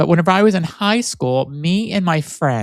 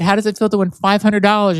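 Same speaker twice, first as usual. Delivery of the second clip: Barbara Midnight DJ voice; 6 semitones higher than usual. Retold or imitated. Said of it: "my name was Barbara Midnight".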